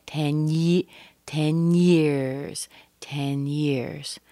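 "ten years" said as one joined unit; linked N and Y. Shown as a demonstration. Teacher shows learners the N-Y link, linked N and Y. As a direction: run the N of "ten" straight into "years". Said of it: "that N and the Y are connected".

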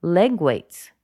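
"leg" lifted, "weights" falling; stress on LEG. Shown as a demonstration. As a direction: really punch "leg". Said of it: "I really emphasized leg weights".

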